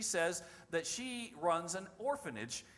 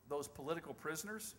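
soft, tentative question, retold; not sure; 8 dB quieter than usual. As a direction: broach it carefully and quietly. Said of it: "he's not sure about it".

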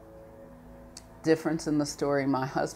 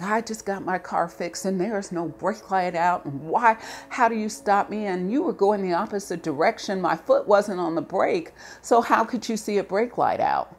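raised, louder indignant protest to the officer; retold angry protest; 5 semitones higher, 4 dB louder than usual. To the officer who pulled her over, indignant and angry. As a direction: push back hard, voice climbing and louder.

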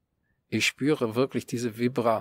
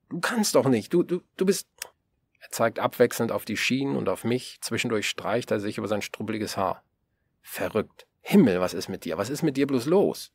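raised, rattled stammering scold; rattled tramp scolding the boy, voice raised; agitated old man. Acted. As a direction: sputter at the boy in disbelief.

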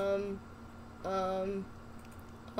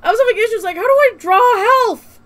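louder, higher, fed-up complaint; exasperated; 8 semitones higher, 8 dB louder than usual. Real, not acted. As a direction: complain loudly, half laughing.

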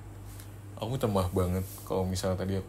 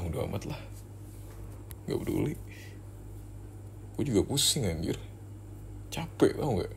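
softer, tired muttering to yourself; fed-up grumble; 6 dB quieter than usual. Acted. Muttering to yourself about the girlfriend's crying, soft and fed up. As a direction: sulk about not wanting to comfort her.

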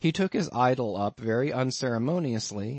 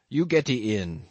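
gruff harpooner; 3 dB louder than usual. A narrator's reading. Queequeg invites him in.

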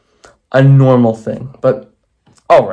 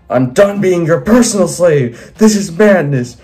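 higher, hammed-up yelling; mock yell; 6 semitones higher than usual. Bill turns on his maker, acted yelling. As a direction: rant it as a half-held yell. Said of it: "Bill yelled loudly".

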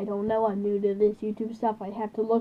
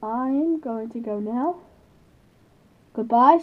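blocked nose. Real, not acted. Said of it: "Sorry I sound like this. I am still congested".

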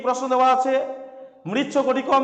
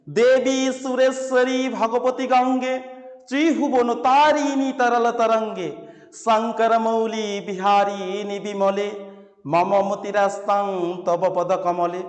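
slow, measured chanting of a Sanskrit hymn; slow verse recitation; slower than usual. Shown as a demonstration. Teacher reciting the Ganga hymn slowly to students. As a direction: recite each line slowly, like a sacred stotra.

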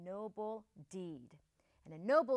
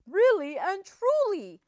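raised, loud, falling assurance; Big Bad Wolf; 9 semitones higher, 9 dB louder than usual. A narrator's reading. Wolf reassuring Missus Duck at the door, emphatic answer. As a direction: confirm it firmly with a falling end. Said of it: "said Big Bad Wolf".

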